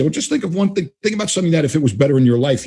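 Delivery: starts high, then quickens into a coaxing suggestion; voice tone change. Retold or imitated. Coach prompting a doubtful client, changed voice tone. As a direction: shift tone to lead the client along. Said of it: "you'll hear the voice tone change".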